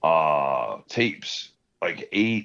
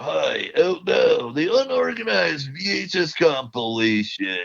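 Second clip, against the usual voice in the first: imitating younger self; 4 semitones higher than usual. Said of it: "talking about".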